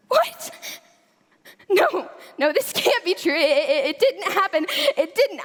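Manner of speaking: shocked, tearful denial; tragic heroine sorrow. Acted. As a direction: break down in disbelief. Denial after the news.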